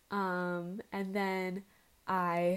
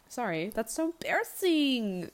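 yawning; 4 semitones higher, 4 dB louder than usual. Real, not acted. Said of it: "I'm yawning".

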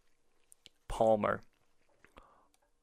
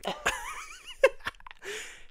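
high giggle at her own slip; laughing at tripping over the word; burst of high laughter; 6 dB quieter than usual. Real, not acted. Friend laughs after mangling a name, high giggle.

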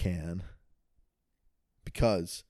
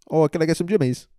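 British customer; 6 semitones higher, 5 dB louder, faster than usual. Acted.

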